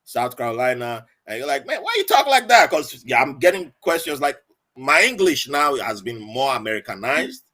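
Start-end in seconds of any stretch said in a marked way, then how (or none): 1.6-2.7 high, louder mock-incredulous question; puzzled American recruit. Fellow recruit questioning his English, mock-incredulous. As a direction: poke at the way he talks.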